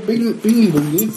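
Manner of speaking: high, slow goofy name; silly clown. Acted. Reading a silly beer name.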